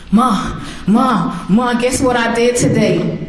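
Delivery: mother voicing her son rushing in with news; excited teen calling.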